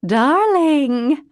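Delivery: loud, high darling cutting in; interrupting. A narrator's reading. Mother to daughter, a loud high interruption. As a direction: cut her off sweetly. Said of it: "Althea interrupted".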